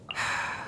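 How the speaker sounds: soft exasperated exhale; weary sigh. Acted. Forest watcher facing another poisoning, weary sigh. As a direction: sigh quietly before dealing with it.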